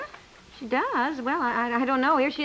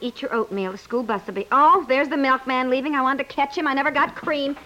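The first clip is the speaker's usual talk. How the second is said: ordinary talk, nothing marked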